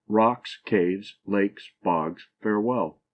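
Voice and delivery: equal weight on "Rocks, caves, lakes, bogs, farewell"; each word of "Rocks, caves, lakes, bogs" stressed separately; spondaic stress. Shown as a demonstration. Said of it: "a foot with both syllables accented".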